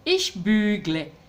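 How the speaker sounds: slow, careful German "Ich bügle"; "Ich bügle" spelled out slowly; German example. Shown as a demonstration. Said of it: "bügeln". (pronunciación lenta y clara de "Ich bügle")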